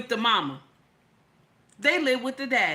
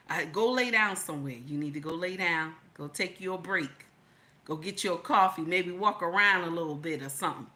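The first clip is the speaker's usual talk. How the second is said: husband's calm voice; 4 semitones lower, faster than usual. Retold or imitated. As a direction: talk her down gently, a touch lower. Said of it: "and he tell me".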